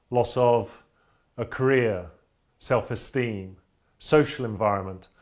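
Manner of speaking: measured spoken-word poem with weighted pauses; poem recitation. Acted. Veteran reciting his poem about his brain injury, measured poetry reading. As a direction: recite it line by line, letting each phrase land.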